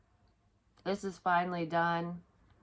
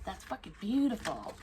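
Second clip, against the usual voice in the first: strange affected voice, higher; oddly voiced gushing; odd put-on voice; 3 semitones higher than usual. Real, not acted. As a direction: gush in a funny voice. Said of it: "Why am I talking like this?".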